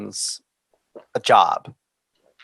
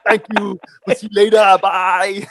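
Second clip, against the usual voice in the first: breezy pilot reply; 8 semitones higher, 5 dB louder than usual. Retold or imitated. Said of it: "I was like".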